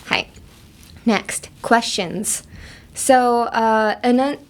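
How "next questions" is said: questions said slowly with the final sound clear; stress on questions. Shown as a demonstration. Teacher introduces the word questions. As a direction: lean on the end of questions. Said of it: "enunciate or emphasize the".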